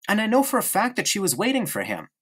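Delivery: put-on a small boy prattling on to his friend; young boy Bruno. Bruno voice complaining of sister.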